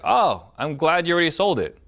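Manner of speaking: high-pitched pleased "oh"; pleased assumption. Shown as a demonstration. Demo assuming the house is sold.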